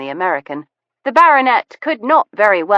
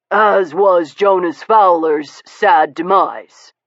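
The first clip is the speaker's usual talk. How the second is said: gentleman's voice; 4 dB louder, slower than usual. A narrator's reading. Steele slow pointed reply.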